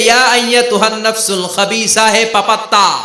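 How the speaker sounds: high, chanted scolding of a sinner; retold angry rebuke. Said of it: "এসে ধমক দিয়ে".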